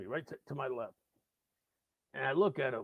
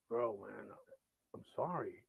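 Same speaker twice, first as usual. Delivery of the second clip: humouring; 5 semitones lower, 7 dB quieter than usual. Retold or imitated. Sober listener humours the drunk.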